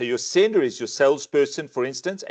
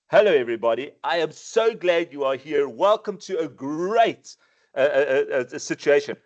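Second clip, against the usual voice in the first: energetic greeting. Shown as a demonstration. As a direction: greet them with real energy. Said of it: "used it in a different tone".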